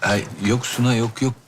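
a touch of awkwardness; mildly uneasy phone reply; slightly odd-sounding. Acted. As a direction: reassure her, sounding a little off. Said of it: "Sesin biraz tuhaf geliyor ama".

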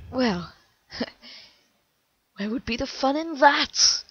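taunting laugh. Acted. Killer taunts operator.

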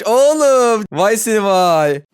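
loud, drawn-out vay seni vay; playful loud scolding of a found player; mock scolding. Real, not acted. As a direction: tease the caught hider slowly. Catching a hider, mock scolding.

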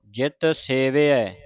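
very slow syllable by syllable recital; slow scripture recital. Shown as a demonstration. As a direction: recite it slowly for learners. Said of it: "ਉਚਾਰਨ ਸਿੱਖਣਾ ਹੈ".

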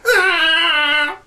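high, loud excited yelp; excited cry. Real, not acted. Announcing the next movie, excited high yelp. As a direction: burst out with excitement.

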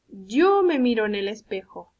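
Yo held long and pushed forward; stress on Yo. Shown as a demonstration. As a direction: lean on the word Yo. Teacher models the pronoun yo.

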